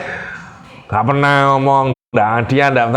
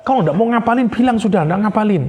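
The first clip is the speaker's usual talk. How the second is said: put-on high-pitched exasperated scolding of a child; pitched-up mock rant at a child who won't memorize; retold angry scolding; 9 semitones higher than usual. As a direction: replay the moment he lost his temper with his son. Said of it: "Saya marah".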